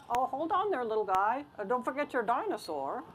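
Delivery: a hint of a chirpy shop lady; lightly voiced bakery lady. Bakery lady calling back a little boy, lightly voiced.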